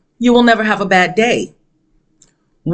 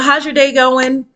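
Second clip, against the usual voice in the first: higher, drawn-out courteous question; imagine a polite check-in, pitched up and slow; mock polite greeting; 7 semitones higher than usual. Voicing the polite greeting she never got.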